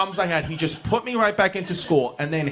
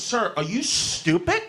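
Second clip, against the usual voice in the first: blunt principal; 6 semitones higher, 3 dB quieter than usual. Retold or imitated. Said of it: "he goes".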